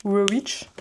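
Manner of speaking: tentative English pronunciation of Rewitch; English accent. Shown as a demonstration. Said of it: "et avec l'accent anglais".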